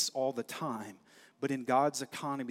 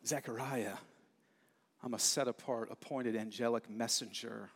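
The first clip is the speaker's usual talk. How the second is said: softer, awed retelling; hushed reverent angel; 3 semitones lower, 4 dB quieter than usual. Acted. Preacher rereading Gabriel's message to Zechariah, hushed and reverent. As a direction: let the words sink in quietly.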